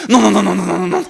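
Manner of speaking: rapid-fire string of refusals, run together; comic panicked babble; mock agonised protest. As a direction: imitate a patient protesting in pain. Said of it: "죽는다는 거예요".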